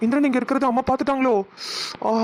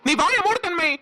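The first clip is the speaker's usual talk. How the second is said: higher, heated rebuke; angry outburst; 3 semitones higher than usual. Acted. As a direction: defend him, indignant and raised. Son furious at insult to friend.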